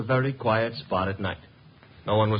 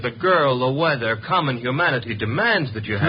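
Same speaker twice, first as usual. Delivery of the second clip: louder, urgent protest; 3 semitones higher, 4 dB louder than usual. Acted. Archie protesting to Wolfe about the girl outside, louder. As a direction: push back hard for the girl.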